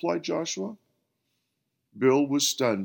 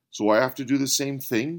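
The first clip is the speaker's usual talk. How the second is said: demanding; 4 semitones higher, 5 dB louder, faster than usual. Acted. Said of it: "demanded Bill".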